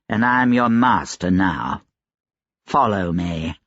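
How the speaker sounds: lightly voiced slow, controlled threat; measured and deliberate, laying down the law; menacing gentleman, composed. Gentleman warns the laundress beside the dead nurse, coolly menacing.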